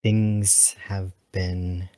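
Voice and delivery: slow, halting start; hesitant, trailing opening; drawn-out pause. Acted. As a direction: let the words hang before pausing. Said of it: "Sunlith pauses here for a moment".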